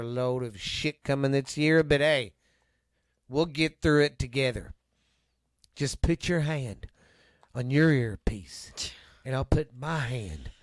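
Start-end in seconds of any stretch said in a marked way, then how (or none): 5.8-10.5 TV evangelist. Acted. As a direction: lead the flock gently like a TV preacher. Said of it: "You sound like a T V evangelist".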